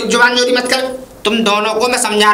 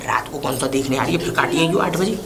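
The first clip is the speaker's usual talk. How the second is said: low, hushed scheming voice; confidential aside; 8 semitones lower, 6 dB quieter than usual. Acted. Elder secretly advising the man about night watering, hushed. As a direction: drop low and soft, keep it secret.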